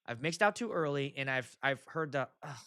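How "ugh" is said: short mock "ugh"; imitated groan. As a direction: mimic a disappointed dance floor.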